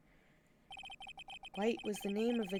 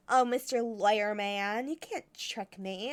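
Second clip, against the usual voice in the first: slow mocking impression of the witness, a touch louder; imitating pink lady; 6 dB louder, slower than usual. Mocking the witness to his friends, slow and teasing. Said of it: "she talks like this".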